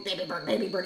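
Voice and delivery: imitated deep parrot voice; lightly guttural bird impression. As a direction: mimic a bird talking from down in the throat. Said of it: "in this deep guttural".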